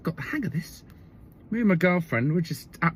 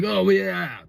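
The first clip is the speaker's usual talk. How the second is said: higher, drawn-out mock frat-bro voice; 4 semitones higher, 4 dB louder than usual. Comedian mimicking a boyfriend on the beach, frat-bro voice. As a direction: imitate an easygoing frat bro agreeing. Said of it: "like, a sort of a frat bro".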